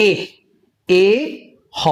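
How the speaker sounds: এ said twice, then হ; sound by sound. Shown as a demonstration. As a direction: spell the sound out as এ, এ, হ. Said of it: "এবং ই এইচ এ উচ্চারণ হবে". (এ এ হ ধীরে ধীরে উচ্চারণ)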